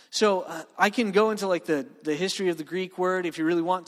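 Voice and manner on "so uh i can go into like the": usual speaking voice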